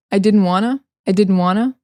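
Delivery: "wanna" run together with no T; casual American "didn't wanna"; reduced to wanna. Shown as a demonstration. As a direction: blend "want to" into "wanna". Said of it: "You can say".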